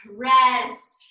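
loud call of rest; shouted command. Real, not acted. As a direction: bark it out to end the set. Coach ends the workout.

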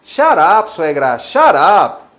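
fuerte y agudo, cortante; suéltalo con fuerza; shut up gritado. Pretend. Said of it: "A la suegra". (grito de "shut up")

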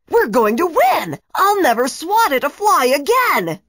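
villain coach yelling with glee as the bug steals the ball; gleeful yell. A narrator's reading. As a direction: crow it like a cheating winner. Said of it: "Sam yelled".

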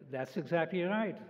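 lightly imitated German-accented mother confirming; a hint of mother's German accent. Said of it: "in her heavy German accent".

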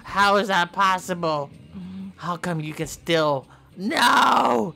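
high, loud frantic brother voice; high frantic shouting in disbelief; panicked disbelief. Pretend. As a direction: freak out that he's alive.

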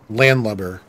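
landlubber with a light Boston r, imitating the game's voice actor; Boston accent. Gamer copies the voice actor's Boston landlubber. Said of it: "did a really good job with the Boston accent".

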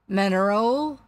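loud captain's probing question; quizzing captain. A narrator's reading. Captain plays guessing game with stranger, probing. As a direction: press the question with booming weight.

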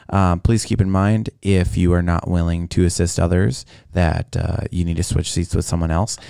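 calm airline captain announcement; steady, reassuring cabin announcement; pilot intercom voice. Shown as a demonstration. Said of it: "here's mine".

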